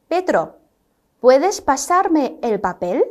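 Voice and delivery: slow, careful Spanish example read; slow model sentence. Shown as a demonstration. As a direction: read it out slowly for the class. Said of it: "还可以说成". (放慢语速示范朗读)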